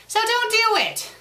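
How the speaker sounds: sudden high shouted command; a burst of hammed-up outrage; mock yell. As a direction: yell it at the author like a scolding. Ranting reader scolds fanfic author.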